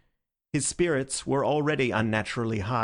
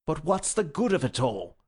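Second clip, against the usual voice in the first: exasperated; 5 semitones higher than usual. Acted. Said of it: "asked Doctor Bull in exasperation".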